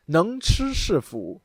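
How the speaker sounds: "能吃是福" said slowly, syllable by syllable; slow Chinese. Shown as a demonstration. The vlogger teaching viewers "能吃是福" slowly. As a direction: read "能吃是福" out clearly and slowly. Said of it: "let's translate the words".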